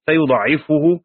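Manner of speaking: فيضاعفه with the ع doubled and the ending fuhu; Ibn Kathir's reading. Shown as a demonstration. Teacher reciting Ibn Kathir's reading of فيضاعفه. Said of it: "بالتشديد وضم الفاء".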